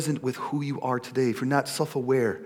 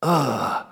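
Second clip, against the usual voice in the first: mock groan of reluctance; disgusted groan. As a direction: let out a weary "ugh". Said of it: "celebrating just is like".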